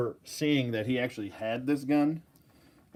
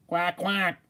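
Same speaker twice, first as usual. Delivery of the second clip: duck quack; 5 semitones higher than usual. Pretend. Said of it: "See the duck?".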